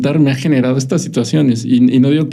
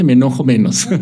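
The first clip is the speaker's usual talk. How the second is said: laughing. Real, not acted. Laughs admitting anger progress.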